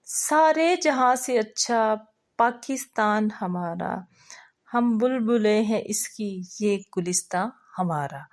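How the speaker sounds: slow, lilting recitation of a patriotic verse. Acted. Teacher reciting a verse for the first group member, lilting.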